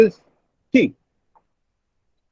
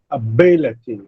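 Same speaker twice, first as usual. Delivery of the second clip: ability, with the bi stressed and the end falling low; 6 semitones lower than usual. Shown as a demonstration. Teacher demonstrating the stress in ability to a student. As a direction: say ability, leaning on bi. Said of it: "B will receive the primary stress".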